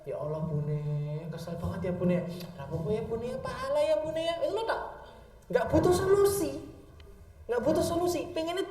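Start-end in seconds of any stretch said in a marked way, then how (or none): 0.0-4.3 soft, soothing consolation; husband comforting his wife, soft and gentle. Shown as a demonstration. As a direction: murmur sympathy to a tired wife. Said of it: "pengennya ibu-ibu bukan jawaban itu".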